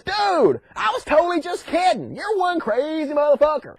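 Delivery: high-pitched, incredulous voice from above; mock disbelief. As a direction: call him off in hammed-up disbelief. Voice stops Abraham's stabbing.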